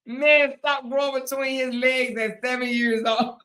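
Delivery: reading through laughter; laughing while reading. Real, not acted. Reading Jenny's comeback to viewers, laughing. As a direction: giggle through the punchline.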